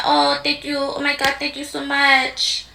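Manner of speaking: a hint of a breathy Tejano star; mock singer gushing. Mocking Kamala's Spanish-community voice, lightly gushing. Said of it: "talking like a singer".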